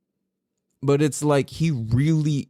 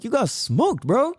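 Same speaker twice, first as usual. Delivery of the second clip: higher, playful gloating; retold gloat; 9 semitones higher than usual. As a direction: gloat at the son, lightly. Taunting son.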